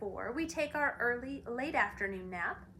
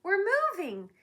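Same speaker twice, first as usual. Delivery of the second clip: rising, louder joyful shouting; happy shout; 7 semitones higher, 5 dB louder than usual. Acted. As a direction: cheer it out with delight. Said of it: "he shouted happily".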